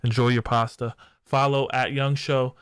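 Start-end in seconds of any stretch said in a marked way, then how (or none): 0.0-0.9 sexy voice. Pretend. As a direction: lay on the sexy voice. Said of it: "I'm gonna put my silent, sexy voice on".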